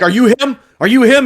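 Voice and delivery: high, loud squeaky waiter voice; imitating the waiter. Waiter asks a diner in a put-on voice. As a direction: pitch way up, pushy. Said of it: "He, he's like".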